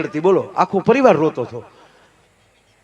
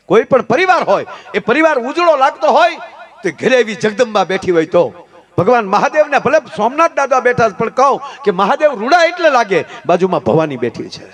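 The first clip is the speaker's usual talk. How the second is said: raised, high-pitched oratory; forceful preaching; 6 semitones higher, 4 dB louder than usual. Real, not acted. Preacher praises the woman of the house, high forceful preaching. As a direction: proclaim it with rousing emphasis.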